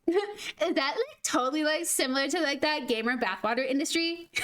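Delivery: put-on a light Valley Girl voice, rising lines; ditzy Valley Girl, like totally. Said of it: "let me just pull my Valley Girl".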